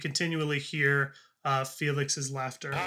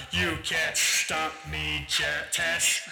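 slow, gloating villain; villain taunt; slower than usual. Acted. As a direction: drawl the threat like a smug sorcerer. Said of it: "and he says".

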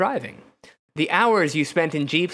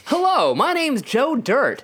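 slow, higher hick character voice; Joe Dirt; 6 semitones higher than usual. Acted. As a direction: introduce yourself in a drawn-out movie-character voice. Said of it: "Was that your Joe Dirt impression?".

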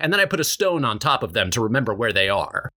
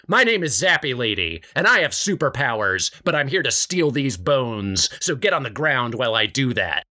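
Zappy Lady. Acted.

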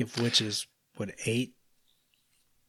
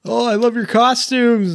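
shrill excited squeal, much higher and louder; 12 semitones higher, 9 dB louder than usual. Retold or imitated. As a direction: squeal it out like a giddy fan. Witch voice high squeal.

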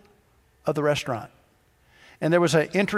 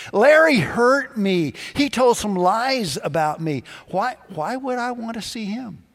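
hurt protest; 5 semitones higher than usual. Acted. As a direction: plead like someone wronged. Preacher protests to God.

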